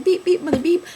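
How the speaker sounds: self-censored cussing. Retold or imitated. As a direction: bleep out your own curses in a high voice. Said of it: "I was, like, cussing".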